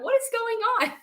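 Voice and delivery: high, baffled question; retold bewilderment. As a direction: imitate your confused self. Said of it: "I'm like".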